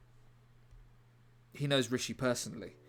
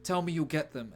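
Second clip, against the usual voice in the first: dying plea; 4 semitones higher than usual. Retold or imitated. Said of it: "Dingo says".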